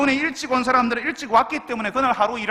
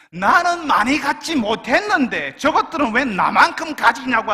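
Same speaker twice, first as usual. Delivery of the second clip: slow, louder jealous complaint; a slow envious whine, louder than the preaching; jealous grumble; 3 semitones higher, 6 dB louder, slower than usual. Retold or imitated. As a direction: drag it out with envy. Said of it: "하는 시기와 질투가".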